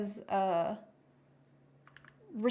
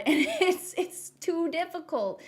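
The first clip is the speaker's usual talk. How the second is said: louder, higher, laughing through it; laughing complaint; 8 semitones higher, 3 dB louder than usual. Real, not acted. Griping to the guest about rigging, laughing. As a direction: laugh out the frustration.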